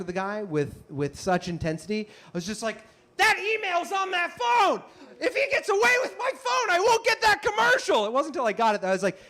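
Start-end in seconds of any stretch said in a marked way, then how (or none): 3.2-8.1 panicked thought. Retold or imitated. Actor chasing thief fearing lost commercial, mock panic. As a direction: fret as if the job is lost.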